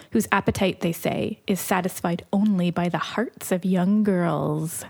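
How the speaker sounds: storyteller reading a blurb aloud; back cover reading. Acted. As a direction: read it like a book teaser.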